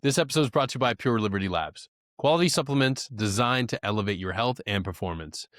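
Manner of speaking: smooth, even sponsor read. Acted. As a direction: read the ad like a pitch.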